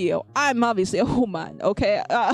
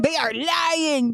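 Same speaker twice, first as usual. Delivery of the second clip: higher, stretched-out accusation; mock outrage; 4 semitones higher, slower than usual. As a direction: accuse them with hammed-up, drawn-out indignation. Mock outrage at chat's claims.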